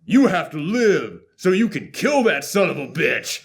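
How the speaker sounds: imitating a casual, gruff dying father; flat gruff line reading. Lightly voiced dad urging his son to kill, offhand. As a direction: toss the line off without feeling. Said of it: "He delivers the line exactly like that".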